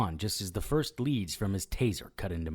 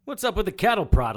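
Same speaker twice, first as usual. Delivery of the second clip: pained outburst; 9 semitones higher, 9 dB louder than usual. Acted. Just prodded, still in pain.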